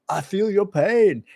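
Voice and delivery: very slow, high, drawn-out empathy; Bill Clinton. Retold or imitated. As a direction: ham up the heartfelt sympathy. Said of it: "I'm not Bill Clinton".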